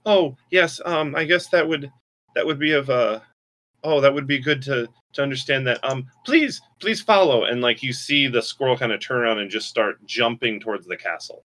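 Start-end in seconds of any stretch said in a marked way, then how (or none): 0.0-7.4 high, eager, fumbling little spirit; nervous spirit. Acted. Squirrel spirit invites the party to follow, high and nervous. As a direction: stammer then rise into please. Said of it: "so you hear the voice again".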